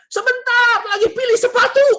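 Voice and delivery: high, loud, sustained holler; comic high-pitched mock yell; imitated wife's shout. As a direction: yell back as the stalling wife. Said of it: "Dia teriak".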